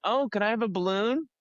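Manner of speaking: eager customer asking. Retold or imitated. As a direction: play the customer begging for a balloon. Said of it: "they were like".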